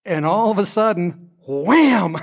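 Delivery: rising high to a sudden wham; excited build-up. Retold or imitated. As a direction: build the suspense then burst out. Dramatic climax of plane story.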